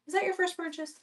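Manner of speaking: soft repeat. Real, not acted. Host quietly repeats her question to the buyer, soft and high. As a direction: ask again softly, almost to yourself.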